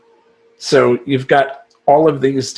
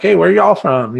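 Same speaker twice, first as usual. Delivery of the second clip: affected New Orleans greeting, louder and higher; New Orleans accent; 5 semitones higher, 3 dB louder than usual. Retold or imitated. Gallery seller greeting tourists, put-on New Orleans accent. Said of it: "affect a New Orleans accent".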